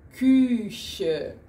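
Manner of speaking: Küche 中 ch 发成轻柔的擦音; German ch in Küche. Shown as a demonstration. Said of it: "Por exemplo".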